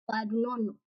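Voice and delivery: soft trailing "do not know"; quietly. Real, not acted. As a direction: drop away on "do not know". Quiet repeat.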